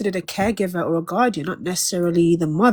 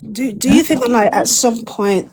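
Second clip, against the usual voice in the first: put-on British accent; lightly done British accent, posh phrasing. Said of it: "how you go from British to a Caribbean accent".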